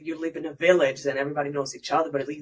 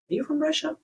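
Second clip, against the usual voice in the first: high rising voice, imitating a nosy stranger; mock curious question; 12 semitones higher than usual. Imitating strangers who ask where she is from, mock curious. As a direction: lift it sharply at the end like a prying question.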